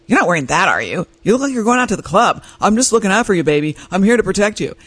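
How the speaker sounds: a hint of a protective husband, pitch lifting; imitating husband. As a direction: replay the husband's protective criticism as he said it. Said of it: "This is how he said it".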